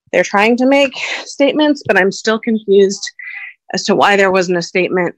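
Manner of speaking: breathless, pushing words out; short of breath while speaking. Real, not acted. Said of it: "Sorry, I'm out of breath".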